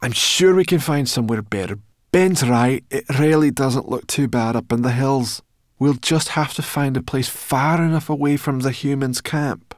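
high, loud, insistent creature voice; bossy brownie girl. Acted. Sorrel pushing the dragon away from camp, insistent. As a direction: urge the tired one onward.

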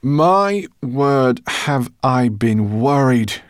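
put-on high, loud worried old professor; cried out in relief. A narrator's reading. Professor greeting returning friends, relieved cry. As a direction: burst out with relief. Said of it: "cried Professor Greenbloom".

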